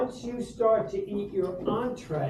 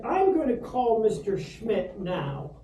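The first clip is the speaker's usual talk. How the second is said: retold stern ultimatum. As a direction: lay down the threat word by word. Retold principal delivers slow ultimatum.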